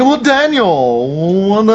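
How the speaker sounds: flamboyant voice, high, slow. Demonstrating a voice he did for a character, flamboyant Vlad voice. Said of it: "really flamboyantly gay dude".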